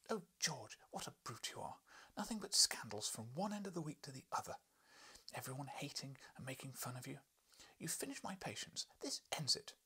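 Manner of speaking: high, exasperated scolding; a wife's high scolding. Acted. Wife to husband George, high exasperated scolding. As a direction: berate him in a high voice.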